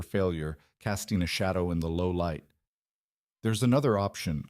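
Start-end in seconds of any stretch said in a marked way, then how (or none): 3.4-4.5 slowly. Acted. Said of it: "I said slowly".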